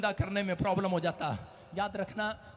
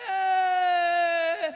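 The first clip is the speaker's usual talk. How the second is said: mock wail; 8 semitones higher, 5 dB louder than usual. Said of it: "रो रही है, नौटंकी कर रही है".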